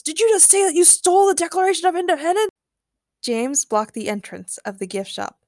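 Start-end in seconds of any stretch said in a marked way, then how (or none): 0.0-2.5 high, fast question of disbelief; incredulous. A narrator's reading. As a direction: blurt it out, unable to believe it.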